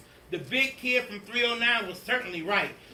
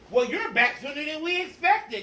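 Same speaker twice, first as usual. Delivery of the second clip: higher, louder surprised greeting; surprised principal; 8 semitones higher, 6 dB louder than usual. Acted. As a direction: caught off guard, say it up high. Principal greets returning teacher.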